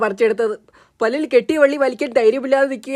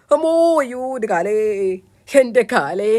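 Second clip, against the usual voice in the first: noisy crying. Acted. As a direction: keep wailing about the sore leg. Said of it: "ശബ്ദം ഉണ്ടാക്കരുത്". (വേദനയോടെ നീട്ടിക്കരഞ്ഞ്)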